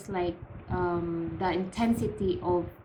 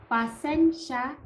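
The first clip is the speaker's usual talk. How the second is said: higher "Pa sen sha" in distinct syllables; 4 semitones higher than usual. Shown as a demonstration. Teacher repeats the word for learners, syllable by syllable. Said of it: "repeat after me".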